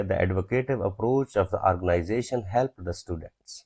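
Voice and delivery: slow, word by word dictation. Shown as a demonstration. Teacher dictating an example sentence slowly to students. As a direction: spell each word out slowly for the class. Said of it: "adjective में मैंने किया".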